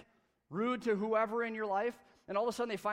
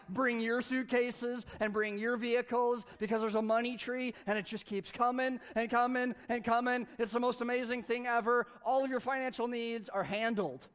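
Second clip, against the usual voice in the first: excited announcement; 3 semitones higher, 4 dB louder than usual. Pretend. Calling family about tree.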